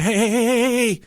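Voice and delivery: high, repeated warning call; retold attempt to halt a child; calling to stop.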